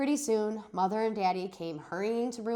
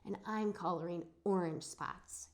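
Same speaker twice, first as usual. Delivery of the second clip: kind of soft; 8 dB quieter than usual. Acted. Shy William tells the class his spot color softly. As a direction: say it shyly, barely there. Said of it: "he said, kind of soft".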